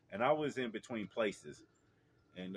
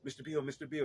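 lightly voiced excited child, pitched up; higher voice for a little kid; imitated little boy; 6 semitones higher, faster than usual. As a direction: imitate a small boy calling for attention. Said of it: "he goes".

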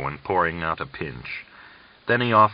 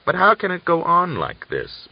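a raised, pleading, miserable question; 11 semitones higher, 4 dB louder than usual. A narrator's reading. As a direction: ask it in misery, voice lifted high. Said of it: "blinked distractedly and miserably".

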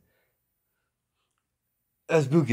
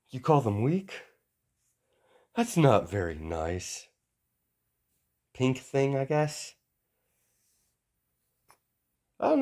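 mock-polite taunt. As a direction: needle him with fake manners. Izuku mocking Buu politely.

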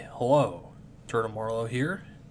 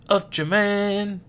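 high, drawn-out hero cry; heroic transformation call; 7 semitones higher, 3 dB louder, slower than usual. Acted. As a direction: announce the superhero, slow and high. Child announces a transformation.

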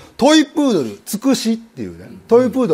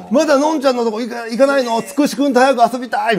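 a hint of a whining little boy; lightly voiced pestering child; impatient child; 3 semitones higher than usual. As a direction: nag like a kid who can't wait.

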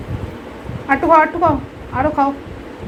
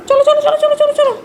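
coaxing call; 11 semitones higher, 3 dB louder, faster than usual. Real, not acted. Calling the pet inside.

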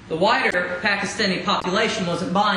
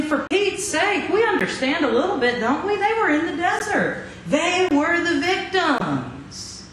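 mock pleading; 4 semitones higher than usual. Preacher voices the Israelites' defence.

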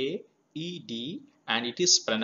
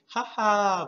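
laughing; 5 semitones higher than usual. Shown as a demonstration. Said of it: "by laughing louder".

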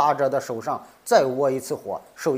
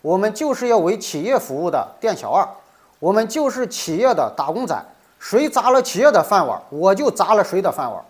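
loud, raised, emphatic mock of a fierce official; vehement quoted vow; 4 semitones higher, 4 dB louder than usual. Commentator quoting a big leader's pledge to subordinates, vehemently. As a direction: hammer out each phrase, imitating a leader's fierce pledge. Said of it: "咬牙切齿地说".

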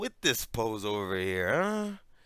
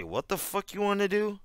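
higher, mocking a rude reply; 10 semitones higher than usual. Mocking a student's rude comeback, pitched up. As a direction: sneer it back like a rude teen. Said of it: "after they say".

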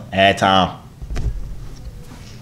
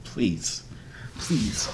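pleading; 3 semitones higher, 6 dB quieter, much slower than usual. Real, not acted. Begging after another rejection.

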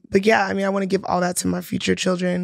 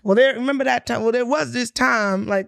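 fake Southern accent; 4 semitones higher than usual. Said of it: "that fake Southern accent".

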